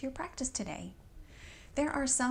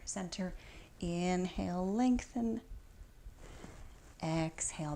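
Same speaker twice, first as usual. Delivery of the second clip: lifted inhale, settling exhale; measured, rhythmic instructor cues; yoga breath cues. Real, not acted. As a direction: guide a repeated stretch in time with breathing. Leads breath-timed yoga movements.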